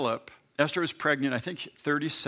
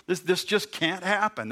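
high disbelief; 6 semitones higher than usual. Retold or imitated. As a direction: squeak it out in disbelief. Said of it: "She goes".

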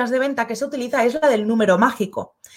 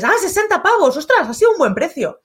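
mock impressed reaction; 6 semitones higher than usual. Rounding up the price aloud.

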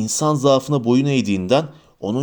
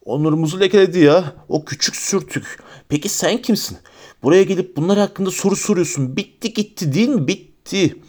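a higher, raving voice that swings between bursts and mutters; drunken angry shouting; 4 semitones higher than usual. Acted. Morfin, drunk and raving, yells at the stranger who questions him. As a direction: rant like a drunk waving a knife. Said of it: "Bıçağını sallayıp bağırdı".

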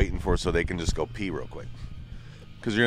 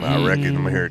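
higher-pitched drawled movie-character imitation; Sling Blade; 4 semitones higher than usual. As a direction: do a rough Sling Blade impression. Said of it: "sounds like Sling Blade".

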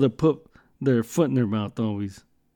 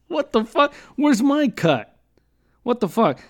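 mock outrage; 8 semitones higher than usual. Real, not acted. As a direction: protest like you've been robbed. Indignant at missing his cut.

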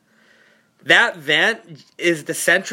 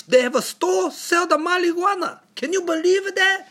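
imitating his dad; 4 semitones higher than usual. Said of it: "he was like".

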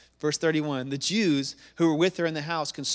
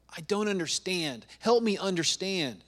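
higher, imploring acted prayer; humbled plea; 5 semitones higher, 3 dB louder than usual. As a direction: beg for help, lifting out of the hush. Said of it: "collapsing at his feet and saying".

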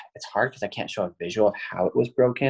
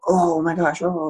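retold scream; 9 semitones higher, 3 dB louder than usual. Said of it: "like, scream".

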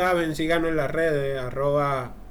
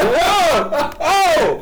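mock gasp voice; 12 semitones higher, 7 dB louder than usual. Acted reaction in retold story.

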